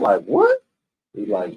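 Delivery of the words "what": high shocked yelp of disbelief; stunned "what". Retold or imitated. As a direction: blurt it out in shock, pitched way up. Told of beheading.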